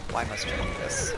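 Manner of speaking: high, theatrical cry of despair at the writers; mock dramatic lament. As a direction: wail it like a tragic heroine. Exasperated at sibling rivalry tropes.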